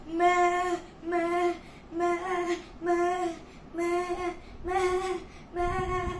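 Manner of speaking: short, steady imitated bleats; sheep bleating. Storyteller imitates the flock of sheep, bleating.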